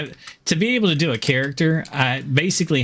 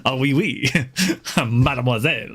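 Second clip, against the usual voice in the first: mock French accent. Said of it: "in a French accent".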